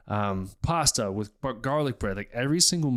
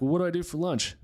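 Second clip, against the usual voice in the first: whiny viewer; 7 semitones higher than usual. Retold or imitated. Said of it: "If you're like".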